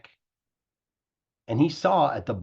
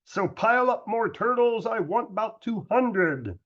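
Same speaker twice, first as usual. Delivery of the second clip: thundering royal voice; 9 semitones higher than usual. A narrator's reading. Yertle demanding two hundred turtles, thundering. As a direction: thunder out the order for more turtles. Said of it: "his royal voice thundered".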